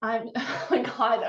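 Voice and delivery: giggling through the words; holding back laughter; stifled giggles. Real, not acted. Giggle fit on set.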